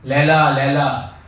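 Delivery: a mild retold yell of Laila; yelling Laila in a story; mock shout. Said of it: "he was shouting".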